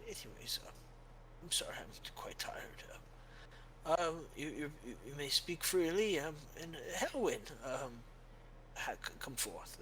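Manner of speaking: put-on hushed, apologetic old cleric; a tired holy man stumbling over his words; weary old priest. Old priest inviting Helwyn forward, hushed and hesitant.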